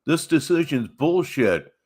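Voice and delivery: hammed-up indignant shout; mock outraged protest. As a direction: protest the ruling like a sore loser. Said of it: "an appeal is that".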